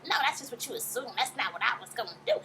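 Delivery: lightly voiced high-pitched old lady; a hint of an old mother protesting, slightly high; Mama Joyce. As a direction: mildly imitate an old lady's high voice. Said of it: "That high-pitched old lady-ass voice".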